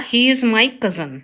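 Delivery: slow, careful read of the corrected sentence; slow teacher dictation. Shown as a demonstration. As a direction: lay out each word clearly for the class. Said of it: "right होगा".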